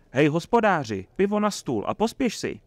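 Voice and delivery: high, loud summons; calling out. A narrator's reading. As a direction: order the innkeeper to hurry up. Calling the innkeeper for beer. (zavolat na hospodského)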